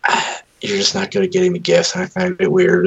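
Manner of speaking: high-pitched imitation of a complaining wife; mock wife voice. Retelling wife's gift complaint.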